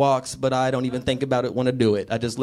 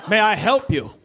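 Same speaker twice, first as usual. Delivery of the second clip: higher, slow grandiose villain voice; ominous stranger; 6 semitones higher, slower than usual. Acted. Stranger answering to his name, theatrical menace. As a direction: announce yourself with hammy menace. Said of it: "he was like".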